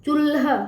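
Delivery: put-on teacher modelling चूल्हा clearly for children; clear model word. Shown as a demonstration. Model reading. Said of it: "तो उसको क्या पढ़ेंगे".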